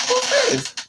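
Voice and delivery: sudden high, loud screech; mock outraged shriek over a cheat; high-pitched demand. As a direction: screech it like you caught him. Retold angry demand in quarrel.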